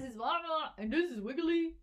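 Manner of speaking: high silly pet voice; chirpy dog voice introducing itself. Acted. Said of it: "I also talk in my dog's voice sometimes".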